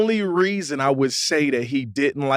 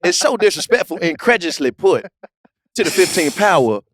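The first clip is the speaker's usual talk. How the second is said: mock pompous Shannon Sharpe. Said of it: "you got a handle on the English dictionary".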